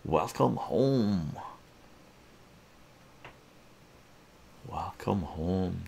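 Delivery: slow, drawn-out giant's greeting; lightly voiced giant; gigantic person. Giant welcomes Arturo home, slow and drawn out. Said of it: "this gigantic person says".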